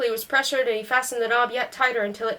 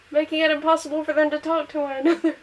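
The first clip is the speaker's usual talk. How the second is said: narrator laughing; 4 semitones higher than usual. Real, not acted.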